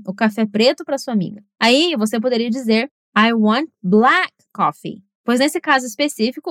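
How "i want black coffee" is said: slow, "black" punched hardest; stress on black. Shown as a demonstration. Correcting a friend's coffee mix-up, stressing black. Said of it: "o que importa é que o café preto é o que você quer".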